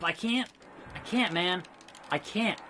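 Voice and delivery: soft, giving-up voice; defeated. Pretend. Player stuck in hold, defeated. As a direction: say it weakly, dropping the volume.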